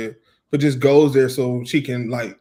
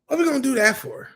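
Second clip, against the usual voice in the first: mock high squeak; 13 semitones higher, faster than usual. Mock incredulous question.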